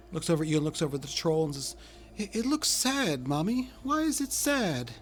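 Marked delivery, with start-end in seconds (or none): 2.2-4.9 put-on high, slow little child voice; a small child gently asking why, pitched up; sad-eyed child. GM voices child pitying troll.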